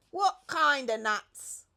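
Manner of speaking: loud, slow monkey voice; a monkey craving to know; high eager question. A narrator's reading.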